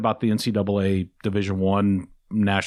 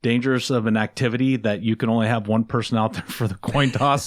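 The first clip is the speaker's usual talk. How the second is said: mock-serious question, a touch of sarcasm; sarcastic. Real, not acted. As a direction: ask with feigned sincerity, breaking into a laugh. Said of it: "obviously I'm being sarcastic".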